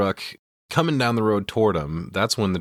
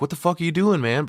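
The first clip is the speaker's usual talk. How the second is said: high mock outburst; hammed-up pissed shout; mock angry yell; 9 semitones higher than usual. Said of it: "Ash is pissed, like".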